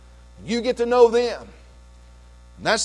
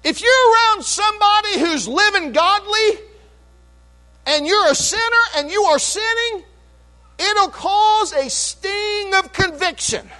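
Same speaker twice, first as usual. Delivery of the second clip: higher, rising fervent preacher's cadence; full-force preaching; 11 semitones higher, 4 dB louder than usual. Real, not acted. Pastor exhorting his church about the saved, fervent preaching. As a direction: build the list like a revival sermon.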